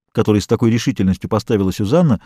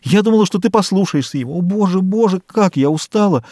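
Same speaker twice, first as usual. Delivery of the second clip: pleading; 8 semitones higher than usual. Acted. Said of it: "взмолилась миссис Дейл".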